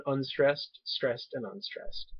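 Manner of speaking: slow, each stress named in turn; slow counting. Shown as a demonstration. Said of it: "three syllables".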